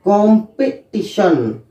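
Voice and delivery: कॉम्पिटिशन drawn out slowly, each syllable clear; slow careful pronunciation. Shown as a demonstration. Teacher modelling the word slowly for students. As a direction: say कॉम्पिटिशन slowly as kom-pi-ti-shan. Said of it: "ये रहता है कॉम्पिटिशन".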